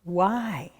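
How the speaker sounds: plain reading voice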